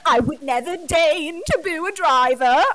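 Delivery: mock gasp then a high, pearl-clutching prissy voice; snooty fan. Mocking snooty Formula One fans with a scandalised gasp. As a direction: gasp and sniff like an offended purist. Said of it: "the way that Formula One fans are like".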